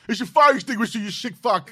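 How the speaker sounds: very high, loud outraged shopkeeper; angry shopkeeper. Retold or imitated. Replaying the sketch as the furious toy shop owner, loud and high. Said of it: "We can do a free accent".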